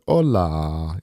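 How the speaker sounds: long, easy hola; laid back. Shown as a demonstration. Streamer sounding out a word for a font, laid back. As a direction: stretch it out, cool and relaxed. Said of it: "just laid back or something".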